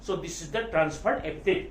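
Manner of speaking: very slow, spaced words for note-taking; slow dictation. Shown as a demonstration. Teacher dictating the answer students should write, slowly. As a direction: dictate the explanation word by word. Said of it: "क्या बोलोगे?".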